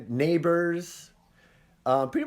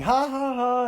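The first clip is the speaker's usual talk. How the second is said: mock laughing; 9 semitones higher, slower than usual. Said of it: "you're laughing".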